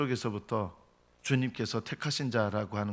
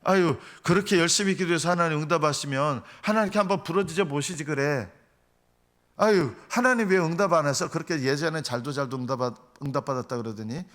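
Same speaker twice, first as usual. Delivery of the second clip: exasperated, higher-pitched jeer; mocking; 4 semitones higher than usual. Onlookers ridicule a man whose prayers go unanswered, mocking. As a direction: taunt with a sighing "aigo" scorn. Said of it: "이러면서 기도하는 것까지 조롱하는".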